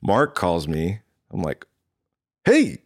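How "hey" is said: loud, very high mock phone greeting; high-pitched greeting. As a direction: pitch the greeting way up, playfully acted. Answering a retold phone call.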